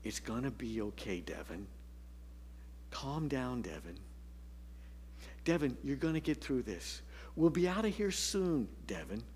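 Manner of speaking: soft, calm father soothing his son. Retold or imitated. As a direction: gently reassure the cranky boy. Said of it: "just keeps calmly saying".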